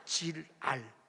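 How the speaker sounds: 질알 broken into 질, pause, 알; syllables split. Shown as a demonstration. Preacher explaining the wordplay, 질알 split in two. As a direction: say 질알 slowly as two separate words. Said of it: "그래서 그걸 뭐라 하냐면".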